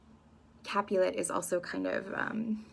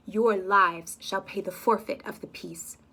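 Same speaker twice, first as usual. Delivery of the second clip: solemn decree; 6 dB louder, slower than usual. Acted. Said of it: "prince's decree".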